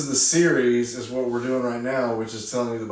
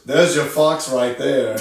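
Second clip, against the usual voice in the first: light celebrity impression, louder and slow; Arnold Schwarzenegger; 5 dB louder, slower than usual. Retelling the star's remark on set, lightly imitated. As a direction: imitate a movie star's line, drawn out. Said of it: "Arnold Schwarzenegger goes".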